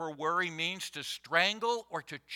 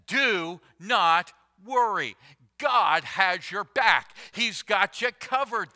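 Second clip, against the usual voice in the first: louder, slow and firm; emphatic preaching; 2 semitones higher, 5 dB louder than usual. Real, not acted. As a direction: press each word home to the congregation. Preacher stresses Jesus' command.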